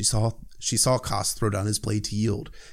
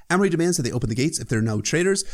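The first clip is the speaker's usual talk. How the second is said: ordinary talk, nothing marked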